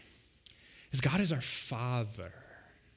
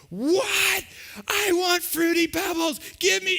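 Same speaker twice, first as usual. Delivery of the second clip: put-on high, loud whining child voice; whiny tantrum kid; 5 dB louder, slower than usual. Child in the cereal aisle demanding Fruity Pebbles, whining high and loud. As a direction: play a five-year-old melting down, much higher and louder. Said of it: "they start to throw the temper tantrum".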